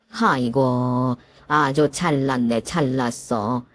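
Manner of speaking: slow drawn-out mocking sigh; sarcastic sneer. Mother-in-law mocks the daughter-in-law, slow and sneering. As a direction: sneer at her slowly.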